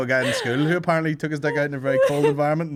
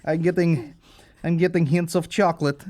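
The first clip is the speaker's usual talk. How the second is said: mock wine snob; 2 semitones higher than usual. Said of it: "They're not sitting there going".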